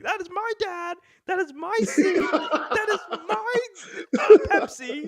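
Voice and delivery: high, slow whiny wail through laughter; hammed-up toddler tantrum over a seat; mock temper tantrum. Retelling his tantrum to his co-host, high whiny wailing. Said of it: "having a whole temper tantrum".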